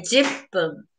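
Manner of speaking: 十分 said juppun, clipped middle; jippun said as juppun. Shown as a demonstration. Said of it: "We can say".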